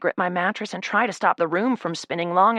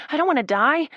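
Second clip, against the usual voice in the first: fearful cry; 9 semitones higher, 4 dB louder than usual. Acted. Rising panic in narration.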